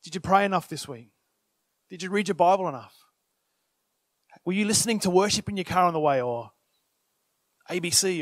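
low, rapid-fire self-questioning; accusing inner voice. Retold or imitated. Worshipper's inner critic, lightly hammed-up and doubting. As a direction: pepper yourself with doubts. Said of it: "all of a sudden it's like".

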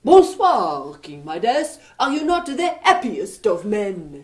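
put-on light French accent, playful stranger; a mischievous Frenchman teasing the king. French young man greets king.

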